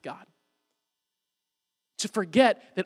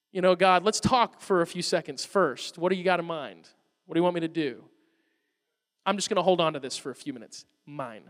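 lower-pitched, measured hedging; guarded stalling; 4 semitones lower than usual. Acted. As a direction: stall God cautiously, dropping away at the end. Acts out guarded bargaining with God.

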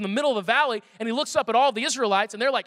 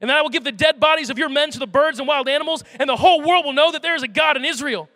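louder, ringing battle declaration; defiant proclamation; 5 dB louder than usual. Acted. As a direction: proclaim it to the giant, unafraid. David's defiant battle speech.

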